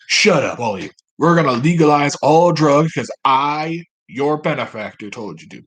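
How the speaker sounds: loud mock scolding, Southern accent; bossy Southern benefactor. Benefactor silencing bought senators, loud hammed-up Southern order. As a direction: overrule them loudly, then drop off.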